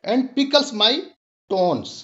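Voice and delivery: slow recitation of "It tickles my bones"; measured, unhurried poem reading; poem recital. Shown as a demonstration. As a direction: savour each line of the poem for the class. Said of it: "mention किया है कि".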